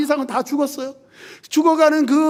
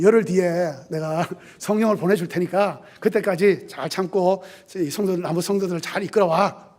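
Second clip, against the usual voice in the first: gentle encouragement; 5 semitones lower than usual. Pretend. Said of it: "그렇게 격려하면서 이렇게 해줬으면". (낮고 부드럽게 격려하듯)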